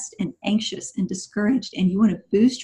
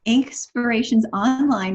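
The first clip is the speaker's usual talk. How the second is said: Inkspirations Online said slowly so each part lands; slow and deliberate; 3 semitones higher than usual. Shown as a demonstration. Guest slowly repeats the site name for listeners, deliberate. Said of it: "Can you say that one more time?".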